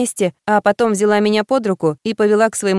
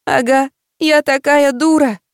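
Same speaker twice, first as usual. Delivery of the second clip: slow, high tearful wail; 6 semitones higher, slower than usual. A narrator's reading. Lost girl sobs to her friend, slow high tearful wail. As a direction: draw it out as if through tears.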